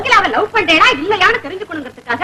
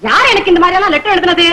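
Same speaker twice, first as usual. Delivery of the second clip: higher-pitched imitation of an outraged husband; mock indignant outcry; 4 semitones higher than usual. Woman predicting a husband's reaction to the letter, mock outcry. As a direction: act out him demanding who dared, mildly raised. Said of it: "அப்படின்னு சத்தம் போட்டார்னா".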